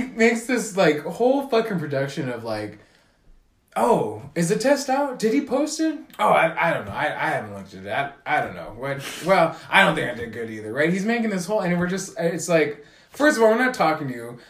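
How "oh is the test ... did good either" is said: mocking fake modesty. Classmate pretending not to know his grade, a mocking fake-modest voice. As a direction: play the humble-bragger.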